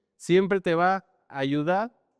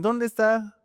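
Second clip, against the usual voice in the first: higher, slightly louder mock stern call; mock scolding call; 5 semitones higher, 4 dB louder, slower than usual. Owner searching for the hidden dog, mock stern call. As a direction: pretend to be cross while calling out. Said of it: "mi papel de regaño".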